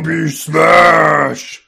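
slow, loud monster voice; Hulk-style smash. Pretend. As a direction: boom it like a hulking brute.

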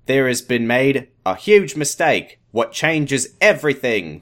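slow, put-on Australian accent. Doctor reveals a huge mistake, slow Australian accent. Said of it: "an Australian accent".

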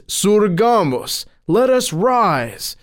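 high, slow proclamation; loud announcement. A narrator's reading. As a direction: proclaim it to the whole hall, drawn out. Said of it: "loudly announced".

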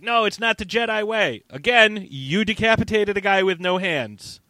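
high, insistent mock protest; acted indignant retort; heated argument.

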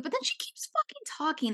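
high, exasperated outburst. Real, not acted. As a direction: throw it up high in disbelief. Exasperated rant about Raquel.

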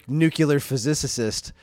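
slow, deliberately botched "nuclear physicist"; mock mispronunciation. Co-host quoting her famous line, mock mispronunciation. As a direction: stumble through "nuclear physicist" like the actress. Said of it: "that's actually how it's pronounced".

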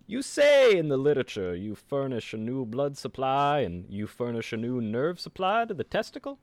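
put-on lightly done old-timey lawyer; a hint of a stern old courtroom prosecutor; lightly voiced old-time prosecutor questioning the doctor. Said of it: "the prosecutor in an old-timey voice".

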